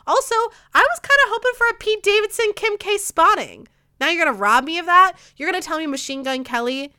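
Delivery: venting real anger about him; angry rant. Real, not acted. Podcaster venting anger about a rapper at Coachella, heated.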